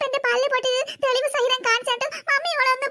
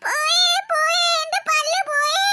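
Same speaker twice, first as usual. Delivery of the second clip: put-on crying; 3 semitones higher, much slower than usual. Child wails over broken tooth.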